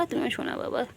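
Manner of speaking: whispered endearment. Real, not acted. Soothing pet.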